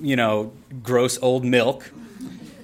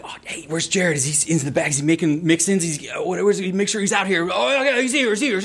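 high, sing-song fake searching; coworkers playing along; 5 semitones higher, faster than usual. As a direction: call out with staged innocence. Crew pretending to look for him.

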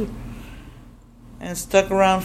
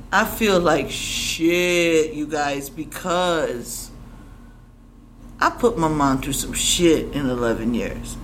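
remorseful; 4 semitones lower, slower than usual. Real, not acted.

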